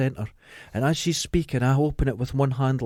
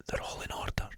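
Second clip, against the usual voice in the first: breathy secret whisper; 13 dB quieter than usual. Retold or imitated. Whispering the card trick's secret to a friend. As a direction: let the secret slip out under the breath.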